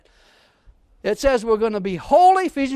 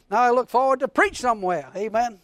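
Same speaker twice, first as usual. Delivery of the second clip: ordinary talk, nothing marked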